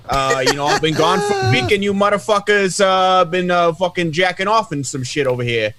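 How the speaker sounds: put-on thick Boston accent, tough guy. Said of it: "with my fucking Boston accent".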